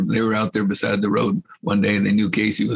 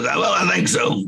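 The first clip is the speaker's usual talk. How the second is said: high mock reply; 9 semitones higher than usual. Cotton answering across the arena.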